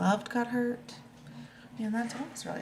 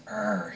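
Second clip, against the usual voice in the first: tough growl; 4 dB louder than usual. Acted. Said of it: "still trying to be so tough".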